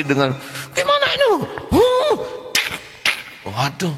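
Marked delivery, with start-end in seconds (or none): 0.7-2.4 very high, whiny mock tantrum; childish angry official. Official on YouTube throwing a fit, mock childish whine. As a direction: play a furious official like a sulking child. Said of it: "seorang pejabat marah-marah".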